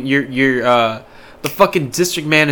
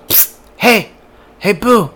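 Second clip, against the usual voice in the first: mock Dale come-on; 5 semitones higher, slower than usual. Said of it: "he goes".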